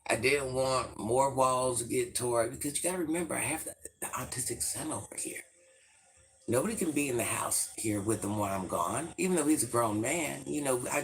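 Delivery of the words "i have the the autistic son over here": whispered aside so the son won't hear. Real, not acted. Whispering so her son nearby can't hear. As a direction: drop to a whisper mid-sentence.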